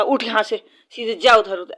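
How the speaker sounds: mild imitated shout at the dog; retold scolding shout. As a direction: chase the dog off, mock yell. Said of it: "ज़ोर से चिल्लाई".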